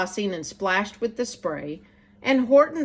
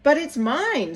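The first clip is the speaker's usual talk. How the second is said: mock scream; 4 semitones higher than usual. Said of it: "screamed the bird".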